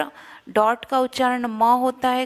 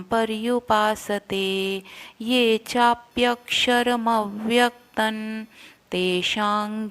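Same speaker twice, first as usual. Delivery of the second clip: slow, chanted Sanskrit verse; shloka recitation; slower than usual. Shown as a demonstration. Teacher chanting the verse for students to follow. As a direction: intone each word slowly and evenly. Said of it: "इसका पूरा हम एक साथ उच्चारण करते हैं".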